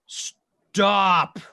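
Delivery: loud, drawn-out bellow; screaming brute. Acted. Game master voices Big Boy telling them to stop, screaming. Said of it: "Big Boy's been screaming incessantly".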